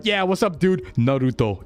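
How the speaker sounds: mock anime dub dude, Japanese name pronounced properly; English dub with correct Japanese. Streamer mocking English anime dubs, mock dub voice. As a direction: drop into a Japanese accent for the name. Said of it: "then I sound like an English dub".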